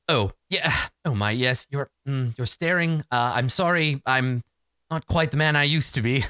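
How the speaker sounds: lightly voiced prim, halting gentleman; prim skull. Floating skull asking Bryn for help, mildly prim. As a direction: apologize politely with small hesitations. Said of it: "sort of prim, uh, voice".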